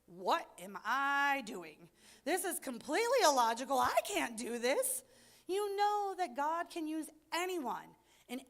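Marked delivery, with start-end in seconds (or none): 0.0-5.0 freaking out. Retold or imitated. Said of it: "freak out and say".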